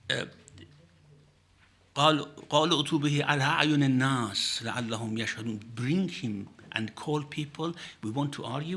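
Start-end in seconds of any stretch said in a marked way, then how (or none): 1.9-5.7 fast, fluent Quranic recitation. Acted. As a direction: chant the verse briskly, reverently.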